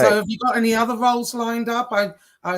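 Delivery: muffled underwater voice; like speaking through water. Real, not acted. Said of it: "your voice is sounding, like, underwater".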